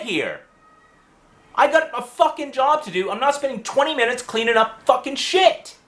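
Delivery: high-pitched, exasperated rant at normal volume; retold angry yelling. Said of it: "I was yelling at the night manager".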